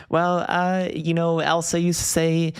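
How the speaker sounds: high mock-mom voice climbing to a laughing squeal; imitating mom. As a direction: quote mom, cracking up at the end. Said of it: "She's like".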